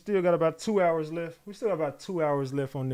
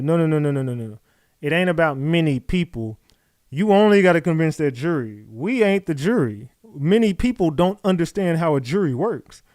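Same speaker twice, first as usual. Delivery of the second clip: emphatic objection; 6 dB louder than usual. Real, not acted. Rejecting a chat comment.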